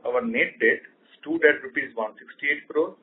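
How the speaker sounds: normal talking voice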